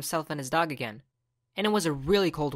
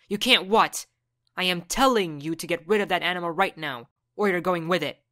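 angry mom; 4 dB louder than usual. Acted. Mom threatens son.

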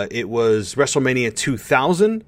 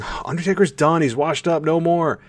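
higher-pitched mocking doubter voice; dismissive naysayer; 6 semitones higher than usual. Host mimicking fans who write off Undertaker, mock dismissive. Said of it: "those of you out there who may be saying".

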